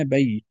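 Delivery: "بيت" as "baytun", n sounded; audible final n. Shown as a demonstration. Teacher letting students hear the n, tanween ending. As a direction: let the silent-vowel n ring in "بيت". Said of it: "تسمع نون ساكنة".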